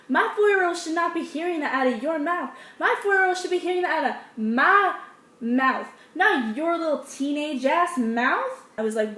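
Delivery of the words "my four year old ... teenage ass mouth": scolding mom. Retold or imitated. Voicing the angry mom.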